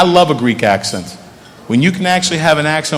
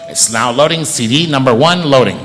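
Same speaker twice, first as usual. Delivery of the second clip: lightly voiced car computer, lower pitch; car's voice assistant; 4 semitones lower, 3 dB quieter, faster than usual. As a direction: read out the status like a car system. Car's voice system answers.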